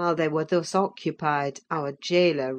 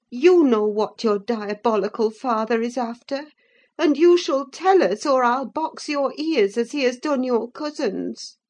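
higher, louder housekeeper's scolding threat; angry threat; 7 semitones higher, 4 dB louder than usual. A narrator's reading. Nelly threatening Linton to make him talk, angrily. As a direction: threaten to box his ears.

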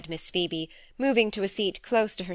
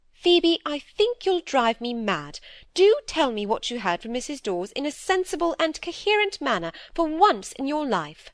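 a lightly voiced stern older sister, a bit raised; stern elder sister; 7 semitones higher than usual. Dorothy lecturing Phoebe about her sighing, lightly voiced stern scolding. Miss Browning distressed, exasperated.

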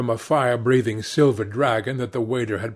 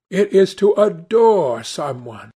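higher, louder youthful declaration; eager cry; 8 semitones higher, 7 dB louder than usual. A narrator's reading. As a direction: lightly exclaim it with conviction. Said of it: "cried Dorian Gray".

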